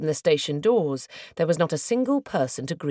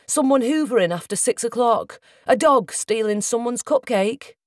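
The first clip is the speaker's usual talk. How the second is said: mocking questions, rising higher; reserved frustration; 5 semitones higher, 4 dB louder than usual. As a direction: needle him with restrained scorn. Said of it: "With reserved frustration".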